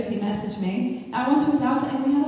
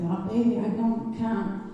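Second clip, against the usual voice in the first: put-on Italian accent; 3 dB quieter than usual. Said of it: "That's the accent".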